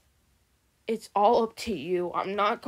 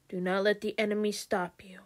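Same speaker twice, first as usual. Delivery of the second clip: fast urgent whisper; 3 semitones lower, 5 dB quieter, faster than usual. Acted. Spirits urge in whisper.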